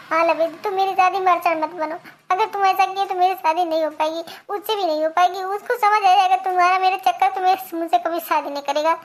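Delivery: a man's light take on a pleading bride; lightly voiced bride. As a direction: bride begging the jilted lover to let her marry.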